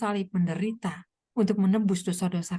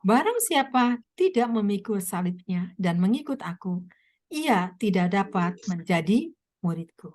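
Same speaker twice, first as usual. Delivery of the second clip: solemn scripture reading; 2 semitones lower than usual. Acted. Preacher reading Jesus' words.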